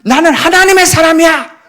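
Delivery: high, loud, defiant proclamation; bold shout. Retold or imitated. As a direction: cry it out as if facing down a lion. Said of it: "그리고 세 번째".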